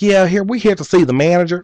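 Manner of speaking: high-pitched mock Kentucky twang; put-on backwoods Kentucky accent; Kentucky hillbilly slang. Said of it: "Kentucky hickabilly slang".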